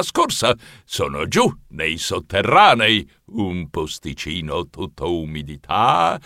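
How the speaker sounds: understated menace, slowing at the end; cook announcing a nasty chore. Acted. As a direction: play it down, then relish the horrid detail.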